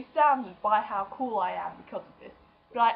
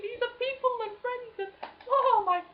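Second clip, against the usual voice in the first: much higher mock American gush; American chap impression; 14 semitones higher, 4 dB louder than usual. About the YouTube community, a high gushing American impression. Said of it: "American chap who was like".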